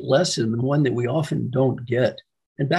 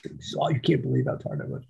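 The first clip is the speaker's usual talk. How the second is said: hushed whine; 6 dB quieter than usual. Retold or imitated. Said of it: "Oh, he says".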